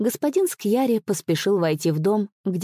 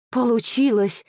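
breathed out in joy; 5 semitones higher than usual. Acted. Servant seeing the master young again, joyful exhale. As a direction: gasp it out, beside yourself with happiness. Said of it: "выдохнул я, от счастья сам не свой".

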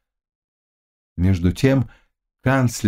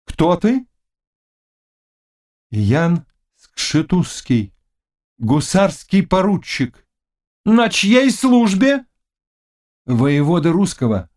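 tense interrogation; 8 semitones higher, slower than usual. Acted. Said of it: "king questions knight".

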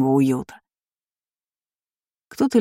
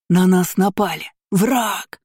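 frantic alarmed cry; panicked shriek; slower than usual. A narrator's reading. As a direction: yell that they're under attack. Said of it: "заверещал ненормальный террасорец".

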